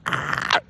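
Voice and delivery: voiceless strangled "ah"; hammed-up choked cry; mock grief groan. Imitating grief in the audience, mock choked groan.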